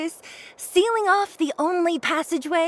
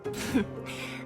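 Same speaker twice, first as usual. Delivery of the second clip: scoff; 8 dB quieter than usual. Acted. Scoffs at the captive.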